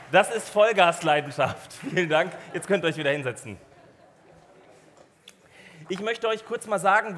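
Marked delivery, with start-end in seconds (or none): 0.1-1.7 begeistert ausrufen. Real, not acted. Feiert die Gemeinde begeistert.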